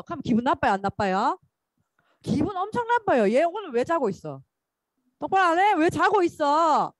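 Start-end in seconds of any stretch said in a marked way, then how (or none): 3.3-6.9 a scolding teacher snapping at a sleeper, louder on the middle line; hammed-up scold of a dozing student; mock angry scolding. Preacher acting an irritated teacher, mock angry scolding. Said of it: "이렇게 하겠죠".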